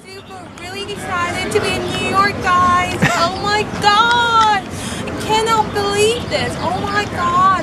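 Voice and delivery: high, put-on New York accent, hamming it up; a jokey tourist's New York accent; playful mock New York accent; fake New York accent. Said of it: "It's such a bad New York accent".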